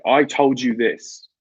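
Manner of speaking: slow blunt rebuke; blunt telling-off. Retold or imitated. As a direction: spell out the rudeness slowly. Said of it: "they're saying".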